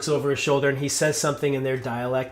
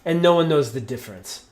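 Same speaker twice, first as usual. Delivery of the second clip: louder, higher, threatening to kill them on the spot; rising fury, a warning barked at the stranger; angry threat; 4 semitones higher, 9 dB louder than usual. Acted. Chieftain threatening the wagon party, furious shout.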